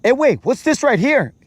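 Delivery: high-pitched brother impression; imitating his brother. Brother spotting something in the cave, high imitated voice. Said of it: "my brother will be there and he'd be like".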